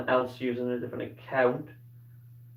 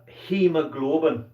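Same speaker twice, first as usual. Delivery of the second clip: Scottish accent; 3 dB louder, slower than usual. Shown as a demonstration. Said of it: "I like saying it in a Scottish accent".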